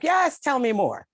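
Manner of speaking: hammed-up delight at being spoiled; eager yes. Retelling her answer to a client, playful high eager voice. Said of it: "I was like".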